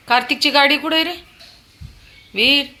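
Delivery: quick, high, loud call. Real, not acted. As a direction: tempt him with the toy car. Calling child, tempting with toy.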